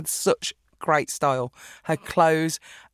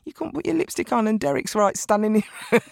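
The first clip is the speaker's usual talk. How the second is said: nagging mum imitation; 5 semitones higher than usual. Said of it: "She'd literally be there on my shoulder going".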